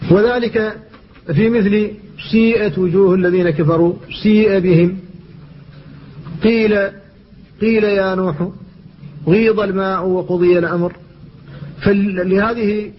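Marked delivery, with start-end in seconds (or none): 2.3-5.0 "سيئت" and "سيء" with the i tinged by a w sound; ishmam vowel. Shown as a demonstration. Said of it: "المشمة بصوت الواو". 6.4-10.9 "قيل" and "غيض" with the i shaded toward u; ishmam vowel. Shown as a demonstration. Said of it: "تلك الياء تشم بصوت الواو".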